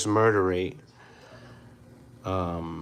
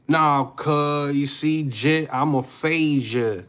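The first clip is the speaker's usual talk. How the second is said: imitating a Southern Black accent, pitched up, slow at the end; mock Southern Black accent; 5 semitones higher, slower than usual. Streamer mocking how a Black Southerner talks, Southern Black accent. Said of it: "I would be talking like".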